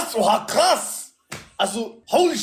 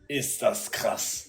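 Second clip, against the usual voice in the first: awed murmur; 10 semitones lower, 8 dB quieter, much slower than usual. Real, not acted. Awed at the money.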